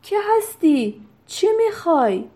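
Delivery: high, sharply falling demands; irritated questioning, pitched well up; displeased. A narrator's reading. Doctor challenges the stranger at his carriage window, displeased. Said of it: "با نارضایتی گفت".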